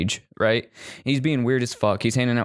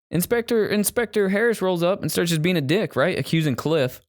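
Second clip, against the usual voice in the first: excited; 9 semitones higher than usual. Real, not acted. Excited movie recap.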